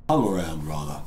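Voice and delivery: blocked-nose nasal voice; talking through a stuffy nose. Real, not acted. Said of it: "excuse the, uh, nasal voice here".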